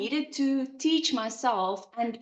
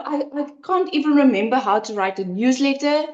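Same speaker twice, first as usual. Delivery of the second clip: anxious; 3 semitones higher than usual. Retold or imitated. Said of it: "like, anxiety feeling".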